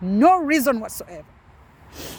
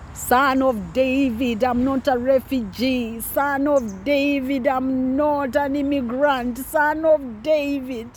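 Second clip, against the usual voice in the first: slow raised pleading cry, higher; 4 semitones higher, slower than usual. Retold or imitated. Crying out to the Son of David like Bartimaeus, slow raised plea. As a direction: cry out slowly like a beggar begging for mercy. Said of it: "I kept on screaming like blind Bartimaeus".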